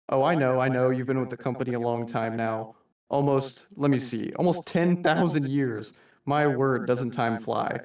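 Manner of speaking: lightly voiced V, a suave mock-polite boss; a hint of theatrical villain addressing his employee; understated V as a genteel manager; reading V's monologue. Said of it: "like V says in the comic".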